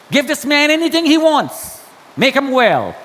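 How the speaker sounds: high-pitched, emphatic command; insistent order. Retold or imitated. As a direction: urgently order others to help. Rescuer giving orders for Stan.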